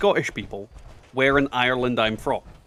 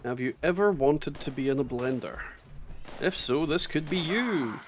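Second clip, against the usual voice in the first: mock advert voice; 5 dB quieter than usual. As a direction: sell it like a late-night ad.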